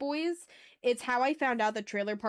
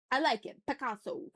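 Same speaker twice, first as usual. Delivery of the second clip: playful meme catchphrase, a little raised; meme quote; 3 semitones higher than usual. Retold or imitated. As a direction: toss out a meme line as a vocal stim. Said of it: "one of my vocal stims".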